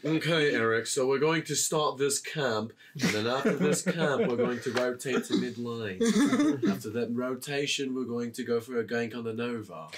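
bored British commentator; dry English voice. Retold or imitated. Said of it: "very dry, dull English voice".

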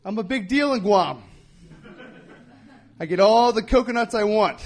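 high, eager rising pitch; pumped-up, selling it hard; excited. Retold or imitated. Hyping up the Guam ambassador.

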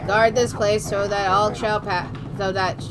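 dumb guard voice. Acted. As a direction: play a proud dim-witted guard. Voices the game character.

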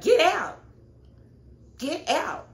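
high, loud mock yell; loud imitated eviction yell; yelling get out. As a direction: shout her out the door. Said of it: "She was like".

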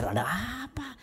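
mock baffled question; acted puzzlement. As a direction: ask it high, drawing out the surprise. Puzzled reaction to the screaming.

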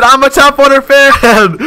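high, loud imitation shout; drawn-out mock war cry; fan's battle cry. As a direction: yell it like a charging fan. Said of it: "He said".

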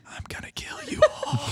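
menacing, voiceless stalker whisper; creepy whisper. Acted. Player creeping round a victim's house, creepy whisper.

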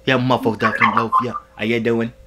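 hamming up a British bloke; fake British accent. Prankster greets a stranger in a put-on British accent. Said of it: "I'm really good at angry, like, British".

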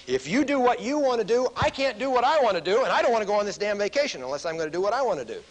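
mock child tantrum. Kid's fantasy clash, heated.

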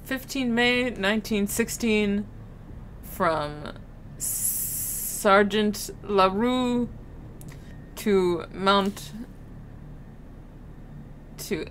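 shaky attempt at a French accent. Player reading a sergeant's report, attempted French accent. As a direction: read it in an amateur French accent. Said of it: "I can't do a French accent".

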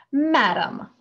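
loud, high shocked address; gasped. A narrator's reading. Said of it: "the doctor gasped".

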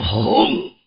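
drawn-out vocal boom of an impact; narrator's explosion sound effect; imitated boom. A narrator's reading. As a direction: voice the blast as one long word.

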